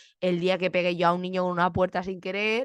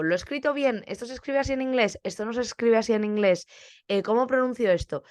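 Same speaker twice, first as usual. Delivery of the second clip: higher-pitched, checking with the class; consulta a los alumnos; 4 semitones higher than usual. Retold or imitated. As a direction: ask as a learner seeking confirmation. Pregunta a los alumnos si acierta. (consulta insegura a los alumnos, en tono más agudo)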